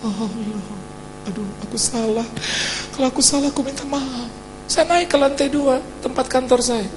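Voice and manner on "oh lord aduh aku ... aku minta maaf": tearful prayer. Retold or imitated. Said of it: "sepanjang dari rumah ke kantor nangis".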